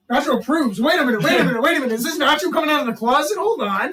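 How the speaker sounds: mock astonished interruption; imitated announcement. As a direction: repeat it insistently, halting the room. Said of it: "So the way he did that".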